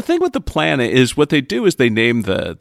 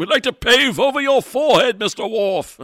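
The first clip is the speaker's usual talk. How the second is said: mock taunt; 8 semitones higher than usual.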